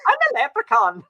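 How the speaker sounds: squeaky leprechaun mom bit; high mock voice. Friend recalls the tiny leprechaun mom, high mock voice.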